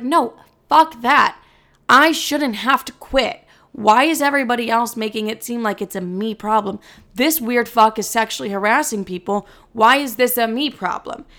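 angry refusal. Retold or imitated. She refuses her mom's advice to quit, furious. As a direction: dig in and refuse hotly.

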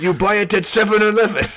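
high, loud mock Asian accent; broad cartoon Asian accent; exaggerated Asian accent. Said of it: "grossly exaggerated Japanese accent".

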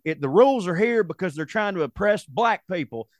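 mock righteous protest, pitched high; moral indignation. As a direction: put on a worked-up moral stand. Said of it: "make it a moral thing".

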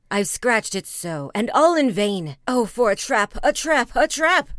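loud, flustered mayor building to a cry; a panicked pompous mayor; fretting mayor. Acted. Mayor frets in council.

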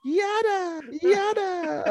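high squeaky yada yada; dismissive singsong. Real, not acted. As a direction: brush it off in a silly voice.

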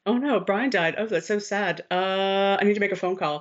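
mock Paul taking the news, hamming the accent up; bad accent. Podcaster reenacts Paul getting the phone call, in a bad put-on accent. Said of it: "That was a bad accent".

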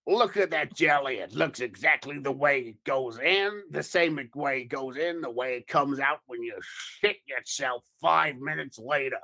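lightly put-on gangster accent; a hint of gangster sales pitch; Joe Pesci. Co-host joins the dog food commercial, light gangster impression. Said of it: "you should do it in that accent".

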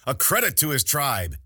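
high, loud mock-heroic proclamation; laughing mockery. A narrator's reading. General teasing his bitten warrior friend, laughing mockery. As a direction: hail him grandly, teasing. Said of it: "still laughing".

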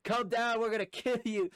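high, loud mock holler; imitated threatening shout. Rednecks to man atop the hill, imitated loud threat. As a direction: yell it up at someone, menacingly.

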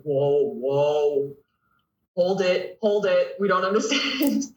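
mock alarm, climbing in pitch; imitating mortified kids. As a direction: play the girls halting the coach, half-joking. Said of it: "look at me absolutely mortified".

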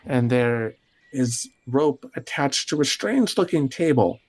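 measured scene-setting with suspenseful pauses; storyteller revealing a predicament in short phrases; game master narration. Acted. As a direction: unfold the scene bit by bit.

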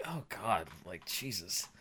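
breathy whispered God, like, Jesus; whispered dismay. Real, not acted. Reflecting on the sad story, whispering in dismay. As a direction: whisper it, stunned by how sad it is. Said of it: "Just thinking about it".

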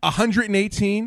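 rising, slow, stunned repeat; can't believe the price; shocked disbelief. Real, not acted.

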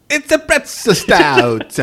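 slow, heavy German accent. Shown as a demonstration. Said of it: "get your best German accent".

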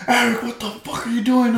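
high-pitched scolding mom impression; mock angry mom. Mom walks in on her son, mock high-pitched outrage. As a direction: imitate a mom catching her kid. Mom catches him in the act.

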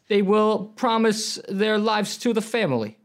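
lightly voiced mob boss, rising pitch; smooth-talking mafioso making an offer they can't refuse; mobster voice. Nevermore plays a mafia boss courting the party guests, a hint of mobster. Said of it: "You're so good at this".

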